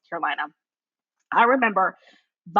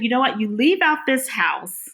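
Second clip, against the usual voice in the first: mock angry order; 3 semitones higher than usual. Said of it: "I get so upset that I said".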